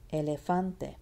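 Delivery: "Elefante" as e-le-FAN-te; stressed third syllable. Shown as a demonstration.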